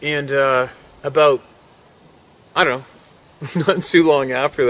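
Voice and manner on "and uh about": usual speaking voice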